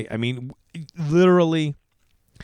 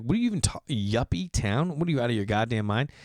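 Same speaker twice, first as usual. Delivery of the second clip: incredulous scoff. Retold or imitated. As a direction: scoff at the insult in disbelief. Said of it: "And I was like".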